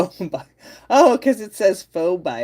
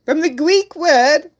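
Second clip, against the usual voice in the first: higher, slower retry; 10 semitones higher, 8 dB louder, slower than usual. Real, not acted. Streamer retries the phrase, higher and slower. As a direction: lift it up, slower. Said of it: "I can't pronounce my R's".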